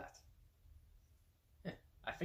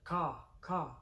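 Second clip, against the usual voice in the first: shrill screeching bird woman; 6 semitones higher, 4 dB louder than usual. Retold or imitated. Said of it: "Uh, what is this sound?".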